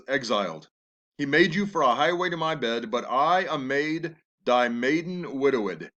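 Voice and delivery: Juliet's lines read with feeling; lightly acted Shakespeare reading; dramatic reading. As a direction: read the verse as a grieving young bride. Reads Juliet's lines aloud.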